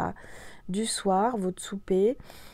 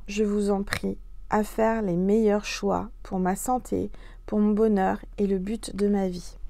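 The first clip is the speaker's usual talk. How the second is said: prayer. Acted. Reads prayer aloud.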